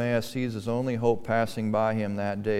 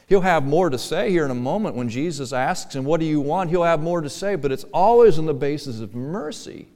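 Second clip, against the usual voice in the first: preaching build; 5 semitones higher, 7 dB louder than usual. Real, not acted.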